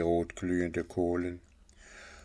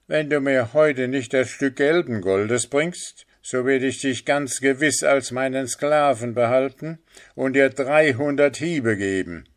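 higher, forceful master's threat; threatening sorcerer; 5 semitones higher, 5 dB louder than usual. A narrator's reading. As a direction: lay down the threat with raised, insistent voice. The sorcerer threatens his slave.

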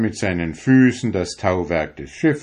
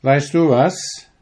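friendly Sandman; 6 semitones higher, 5 dB louder than usual. A narrator's reading. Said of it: "sagte der Sandmann".

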